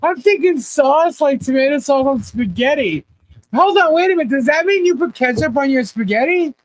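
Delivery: can't believe what she's hearing; shocked. Real, not acted. Host reacting to viewers' ketchup claim, incredulous and laughing.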